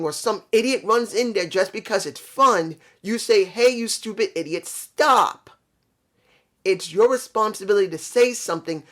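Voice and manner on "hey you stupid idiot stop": a sharp mock call to stop. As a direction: shout to stop a fool running into a fire. Yelling at man running into fire.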